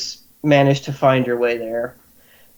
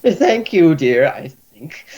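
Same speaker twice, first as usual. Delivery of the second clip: bemused healer; slower than usual. Acted. Healer unsure what to make of the compliment. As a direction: take the compliment doubtfully.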